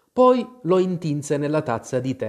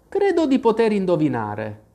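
higher, mildly projected voice; a touch of raised voice; speaking aloud; 6 semitones higher, 3 dB louder than usual. A narrator's reading. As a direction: say it out loud, pitched up. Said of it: "aggiunse ad alta voce".

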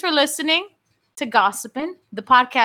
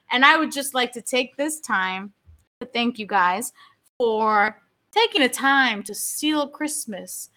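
seductive; 3 semitones lower, 3 dB quieter than usual. Real, not acted. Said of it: "Why do you sound so seductive?".

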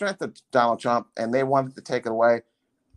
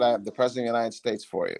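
operator; 2 semitones lower, 4 dB quieter, much faster than usual. Retold or imitated. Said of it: "the lady said".

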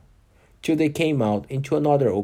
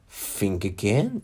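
slow, gentle fawn voice; tender fawn, slowed down; soft, sweet voice; 2 semitones lower, slower than usual. Acted. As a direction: coax her gently and slowly. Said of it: "Such a soft, sweet voice it had".

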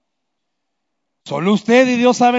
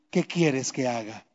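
much softer, lower, tender question; tender Jesus; 9 semitones lower, 11 dB quieter than usual. Pretend. Jesus gently asks Bartimeo what he wants, soft and low.

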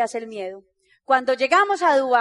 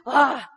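sudden wordless "ah"; short, hammed-up cry; mock exclamation; 2 semitones lower than usual. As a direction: blurt out an exaggerated "ah". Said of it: "no tiene que ser así".

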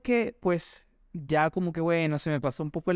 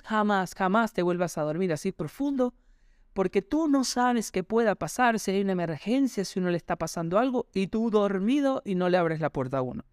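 angry mother; 3 semitones higher than usual. Retold or imitated. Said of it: "enojada me dijo".

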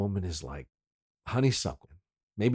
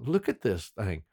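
mock Southern heckler; lightly hammed-up Southern accent, louder at the end; Southern guys; 6 semitones higher, 3 dB louder, slower than usual. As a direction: imitate an appalled Southern local, pitch swooping up. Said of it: "that kind of thing".

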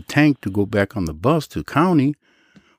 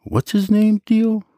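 serious; 13 semitones higher, slower than usual. Retold or imitated. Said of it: "he got all serious".

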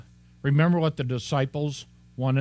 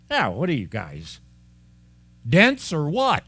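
mock exasperation; 3 semitones higher, 4 dB louder than usual. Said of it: "and we say".

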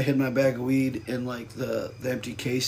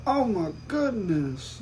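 slow, soft sexy voice; breathy bedroom voice; 4 semitones higher, 6 dB quieter, much slower than usual. Retold or imitated. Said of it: "that's her sexy voice".

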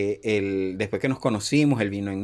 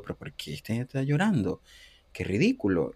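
quieter scoffing aside under the breath; inner thought; 5 dB quieter than usual. Retold or imitated. Thinking to himself as the boyfriend cries, quiet scoff. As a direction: mutter it to yourself, unimpressed. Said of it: "y yo dentro de mí".

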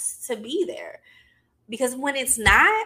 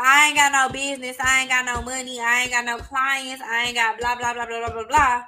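mock whiny rant, louder at the start; mocking complaint; 3 semitones higher, 3 dB louder than usual. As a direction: parody someone tripping about money. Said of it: "versus tripping about".

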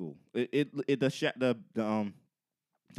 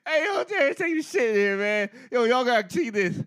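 high, loud hallway call; yelling in hallway; 11 semitones higher, 9 dB louder than usual. Retold or imitated. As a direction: shout to friends down the hall. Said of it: "They yell in the hallway".

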